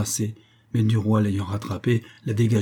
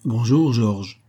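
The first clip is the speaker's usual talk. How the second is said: a firmer, more insistent greeting; pointed, mildly raised hello; louder voice; 4 dB louder, much slower than usual. A narrator's reading. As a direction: raise the voice a little to be noticed. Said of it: "prononça d'une voix plus forte".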